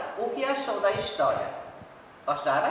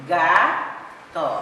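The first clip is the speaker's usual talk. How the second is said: slow syllables; 4 dB louder than usual. Shown as a demonstration. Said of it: "Pronuncia devagar, pausadamente".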